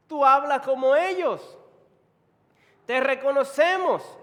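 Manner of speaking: loud, high heckling; accusing bystanders. Acted. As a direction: call out and expose him in front of everyone. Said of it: "dijeron a Pedro".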